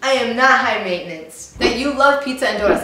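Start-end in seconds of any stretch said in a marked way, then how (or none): 0.0-1.5 loud, firm "no" with a pause after; emphatic denial. Acted. Answering the high maintenance definition, loud emphatic denial. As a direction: deny it loudly, landing each word. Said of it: "I would have to say".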